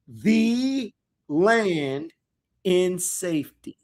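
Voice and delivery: slow, deliberate reading, each phrase set apart; measured scripture reading, word by word; nice and slow. Shown as a demonstration. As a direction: read it slowly, pausing between phrases. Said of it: "we're gonna read it nice and slow".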